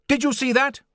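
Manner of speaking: high, loud exclamation; acted astonished outburst; excited cry. A narrator's reading. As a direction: call out urgently, pitched right up. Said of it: "cried Challenger".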